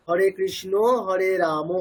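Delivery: slow হরে কৃষ্ণ হরে রাম, ending "krishno", "ramo"; final a as o. Shown as a demonstration. Teacher showing what is wrong in Sanskrit, o-endings on কৃষ্ণ and রাম. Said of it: "ওকার বলছি".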